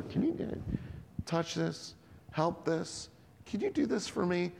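a mock needy voice begging for a favour; whiny mock request. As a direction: play a self-absorbed asker, small and pleading. Mocking a self-centred request.

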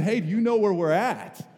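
loud, high panicked question, acted out; panicked swimmer. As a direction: call out like a lost, panicked swimmer. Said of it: "he looked as panicked as I did".

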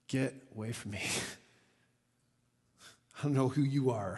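low, very soft imitated plea; humbled plea. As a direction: murmur it as if overawed on your knees. Peter at Jesus' knees, awed.

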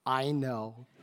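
soft laughing "I know"; a light knowing laugh; amused reply. Retold or imitated. Wife answering husband's apology, soft amused laugh. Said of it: "my godly wife says".

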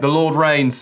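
Australian psalm reading, slightly British-sounding; a hint of imitation Australian; attempted Australian accent. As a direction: try a light Australian accent that slips toward British. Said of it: "that Australian guy comes out and reads a psalm".

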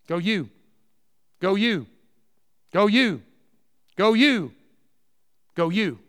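"Go you." hammered again and again, building; repeated emphasis. Shown as a demonstration. Preacher drives home the command to each believer, insistent. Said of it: "It is a individual command".

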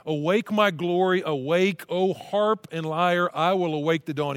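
loud, rousing call to awake; a psalmist fired up in worship; fired-up praise. Acted. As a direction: proclaim it with rising joy. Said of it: "He's so fired up".

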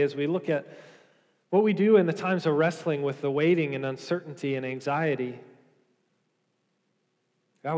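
hushed, earnest congregational prayer. Real, not acted. Pastor praying over the congregation before the study, earnest prayer. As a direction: pray it sincerely over the church.

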